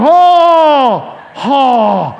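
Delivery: startled oh. Retold or imitated. Preacher spotting a snake at his door, loud startled oh. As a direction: jump back in alarm. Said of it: "I'm like".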